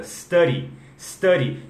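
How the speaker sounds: "study" beginning on a clean S; correct study. Shown as a demonstration. Teacher modelling the correct English "study", starting on S. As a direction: say "study" with no vowel in front. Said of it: "falar da forma ce-, certa".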